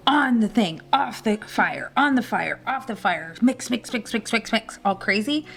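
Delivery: lightly voiced frantic celebrity chef, barely off her own voice; a hint of a chef going psycho at the pan; frantic Gordon Ramsay. Mocking Gordon Ramsay's frantic pan work, mild hammed-up chef. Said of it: "I should probably do an interpretation for you".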